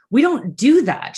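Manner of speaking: imitating mom brushing it off; mom's reply. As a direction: mom refusing her daughter's request, high and loud. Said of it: "And she was like".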